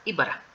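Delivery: "ibara" with its first i stressed; accent the first syllable of "ibara"; i stressed at the start. Shown as a demonstration. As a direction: lean on the i of "ibara". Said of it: "para acentuar al inicio".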